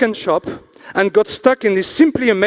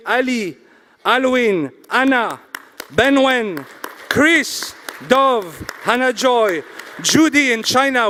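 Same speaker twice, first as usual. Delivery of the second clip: roll-call of names, each set apart; announcer; 4 semitones higher, slower than usual. Acted. Host thanks the organizing committee by name, announcer.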